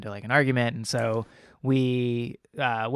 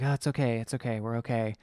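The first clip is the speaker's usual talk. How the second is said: murmured comfort, trailing softer; retold reassurance; 5 dB quieter than usual. Upset couple calming each other after a scare, softly reassuring. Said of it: "so we're both upset".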